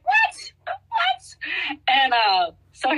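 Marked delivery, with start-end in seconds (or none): 0.0-1.4 two high, squeaky whats, rising then falling; incredulous what, what, pitched far up; double take. Retold or imitated. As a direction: replay the panic of being put on the spot. Retold disbelief at coach.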